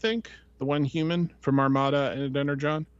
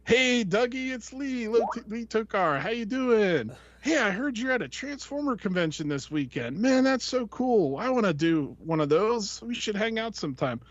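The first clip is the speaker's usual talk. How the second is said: imitating voicemail caller; 7 semitones higher than usual. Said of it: "voicemail that Lee Tokar left him".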